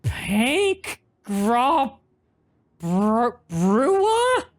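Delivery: high, slow gremlin with a laugh. Acted. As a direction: sign off like a cackling gremlin. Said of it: "You can read horse armor note in Gremlin voice".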